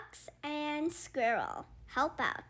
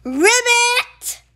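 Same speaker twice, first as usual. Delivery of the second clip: high, loud ribbit; frog ribbit; 11 semitones higher, 14 dB louder than usual. Acted. Frog calling out at the end. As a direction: croak it like a frog.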